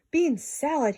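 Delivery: giant's indignant outburst; cried out. A narrator's reading. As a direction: cry it out in disgust. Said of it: "he cried".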